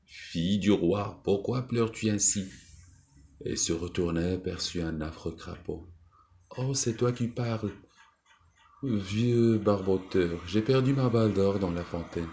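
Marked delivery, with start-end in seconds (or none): 0.1-2.5 raspy broken toad voice. Acted. Toad calls gently to the crying princess, raspy and cracked. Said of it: "une voix rauque et toute cassée". 6.6-12.3 higher, startled princess voice; a tearful girl surprised the toad speaks; young princess. Acted. Princess answers the talking toad, higher and startled.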